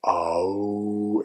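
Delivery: a held rounded "oh". Shown as a demonstration. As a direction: round the lips on "oh". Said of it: "the oo is the same".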